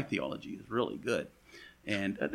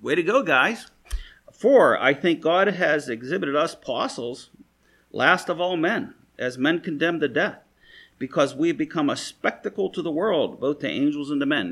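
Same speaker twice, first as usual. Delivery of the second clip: sarcastic praise; 3 semitones higher, 6 dB louder than usual. Retold or imitated. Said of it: "You know".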